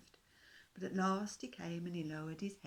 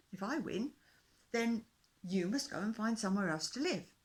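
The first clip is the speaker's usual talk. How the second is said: louder, steady terms; lightly voiced determined fish king; 2 semitones higher, 9 dB louder than usual. A narrator's reading. Fish king sets the race terms for the dinosaur. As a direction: lay down the rules like a king.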